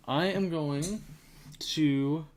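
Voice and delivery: talking through a yawn; words stretched by a yawn. Real, not acted. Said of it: "yawned a little bit there".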